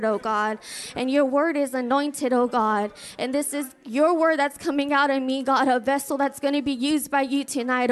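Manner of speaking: earnest prayer, building a little in volume; praying aloud. Real, not acted. Pastor asking God to anoint tonight's word, praying earnestly. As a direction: pray with steady, pressing fervor.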